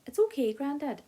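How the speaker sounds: insistent protest. A narrator's reading. Felix brushing off Grandad's help, insistent and loud. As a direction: brush off the offer, pushing back hard.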